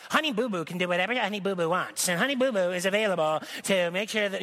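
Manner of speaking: lightly voiced pushy stage mom; a hint of a belligerent mother defending her kid. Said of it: "all belligerent".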